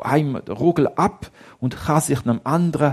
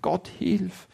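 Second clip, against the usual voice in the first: quiet prayer; 5 semitones higher, slower than usual. Acted.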